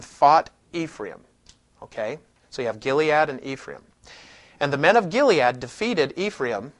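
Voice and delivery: measured, deliberate scripture reading; Bible reading. Acted. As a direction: read the passage steadily to the class. Reads a Bible passage aloud.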